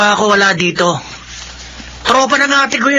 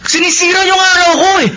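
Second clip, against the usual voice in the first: annoyed; 7 semitones higher than usual. Acted. Son snaps at mother.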